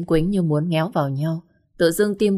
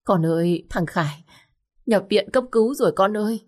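sobbing mother; 3 semitones higher than usual. Acted. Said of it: "bật khóc nức nở".

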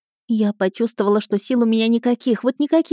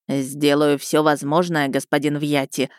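slow, dry and lower; 4 semitones lower than usual. Acted. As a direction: answer flatly and coolly. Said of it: "сухо сказал лекарь". (сухо, медленно)

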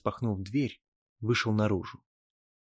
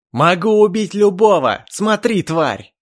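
much higher, very loud raging yell; furious shout; 9 semitones higher, 12 dB louder than usual. Acted. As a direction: scream the threat. Elf about to kill.

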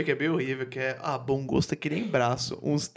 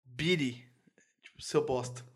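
whispering; 2 semitones lower, 6 dB quieter than usual. Acted. Mock penguin dialogue aside.

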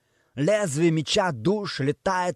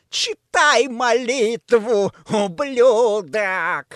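slow, high, loud snarled taunt; demonic roar; 6 semitones higher, 6 dB louder, much slower than usual. Acted. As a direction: roar it down at the victim. Demon taunts kneeling angel.

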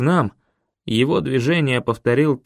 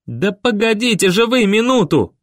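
higher, louder desperate cry; 7 semitones higher, 3 dB louder than usual. A narrator's reading. Boy begging the elders to wait, desperate cry. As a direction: wail out a plea to stop. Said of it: "возопил я".

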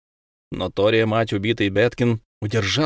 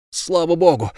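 relieved cry; 6 semitones higher than usual. Acted. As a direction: call it out thankfully, crossing yourself. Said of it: "вскричали они и перекрестились".

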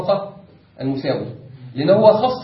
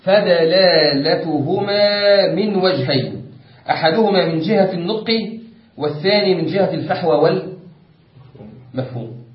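formal text reading. Acted. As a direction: read the classical text out deliberately. Reads the book's text aloud. (قراءة متأنية لمتن علمي)

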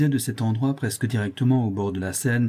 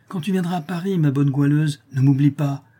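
said aloud; 5 semitones higher, 4 dB louder than usual. A narrator's reading. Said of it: "reprit tout haut".

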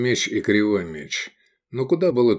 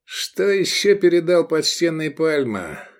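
sheriff's question; 7 semitones higher than usual. A narrator's reading. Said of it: "спросил Рахаль".

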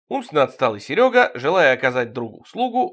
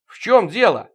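higher, louder annoyed demand; raised-voice grumbling question; disgruntled holler; 8 semitones higher, 6 dB louder than usual. A narrator's reading. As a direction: holler it out, put out. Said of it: "недовольно загорланили мы".

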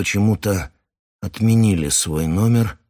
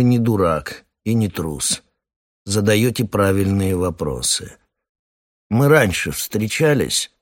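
velvety colonel voice; 3 semitones higher than usual. Acted. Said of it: "бархатный голос".

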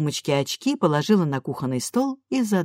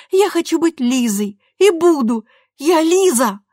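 put-on higher, louder, a girl digging in; defiant insistence; 10 semitones higher, 7 dB louder than usual. A narrator's reading. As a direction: stamp your foot on every word. Daughter defiantly insists on name.

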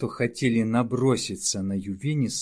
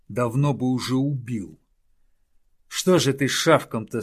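roaring; 3 semitones higher, 4 dB louder than usual. Acted. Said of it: "заревел Ювенис".

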